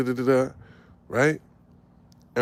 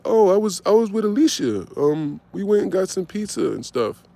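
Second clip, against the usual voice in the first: put-on girlfriend's excuse; 6 semitones higher than usual. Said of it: "this is word for word what she said".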